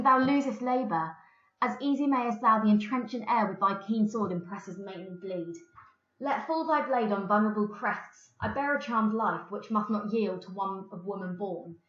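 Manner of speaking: lightly dramatised Shakespeare reading; play reading. Acted. Reads the play aloud.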